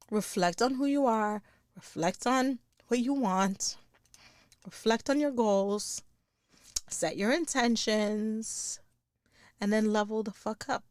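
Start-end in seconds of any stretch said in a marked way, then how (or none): 0.1-8.8 slow down and hush it like a meditation. Acted. Host guiding listeners to reflect.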